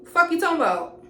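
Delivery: high, loud mocking jeer; a loud sneering imitation of the guy talking trash; mocking his friend. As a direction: throw his words back at him, jeering. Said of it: "he said jaw like".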